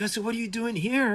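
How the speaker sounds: put-on lifted, curious old-gentleman voice; imitating Harryhausen. Elderly visitor asking an animator what he's doing, high and curious. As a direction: perk up with friendly curiosity, pitched high. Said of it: "he's like".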